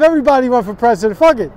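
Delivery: exasperated outburst; loud rant. Real, not acted. Ranting at the Democrats' crowded field, loud and exasperated.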